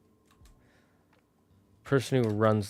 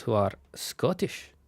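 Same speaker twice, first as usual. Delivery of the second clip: whispered aside; 4 dB quieter, slower than usual. Real, not acted. Whispered aside about dwarves.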